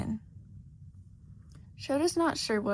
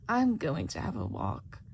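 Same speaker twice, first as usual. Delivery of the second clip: muttering mouse; 8 semitones lower than usual. A narrator's reading. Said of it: "she mutters".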